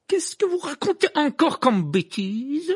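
loud, high, drawn-out scorn; cutting interruption. A narrator's reading. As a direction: cut in slowly with disdain. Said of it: "coupa Rogue".

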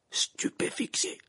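slow, hushed murmur; low voice. A narrator's reading. Dumbledore examines the unconscious Krum, low voice. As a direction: say it slowly under the breath. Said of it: "dit-il à voix basse".

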